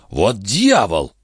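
slow, drawn-out exclamation of disbelief; shaken disbelief. A narrator's reading. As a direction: mutter it slowly, as doubts give way. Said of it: "приговаривал барон, недоверчивость которого была поколеблена". (поражённо, врастяжку)

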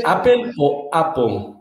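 APPLE said two ways, slowly; APPLE first one way, then the other, stretched out; two pronunciations. Shown as a demonstration. Guest asks the host how it is said, contrasting pronunciations. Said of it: "Se dice Apple o Apple".

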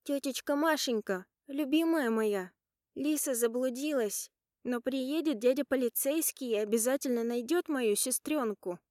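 put-on a small girl comforting her aunt through tears; tearful little girl. Little niece comforting crying aunt Masha, high tearful child voice. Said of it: "утешает меня зарёванная Дианка".

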